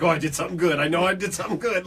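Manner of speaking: lightly voiced pleased puppy; hint of a happy puppy; playful puppy. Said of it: "looked like a playful puppy".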